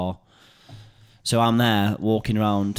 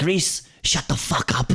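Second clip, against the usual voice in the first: imitating a South African neighbour, slow; a light South African accent telling him off; 5 semitones higher than usual. Neighbour Denise yelling from the window, mock South African accent. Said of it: "she's like, South African".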